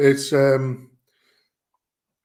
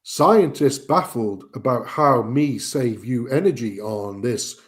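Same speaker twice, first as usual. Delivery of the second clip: deep American ad voice. Retold or imitated. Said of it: "American accent ... deep American accent".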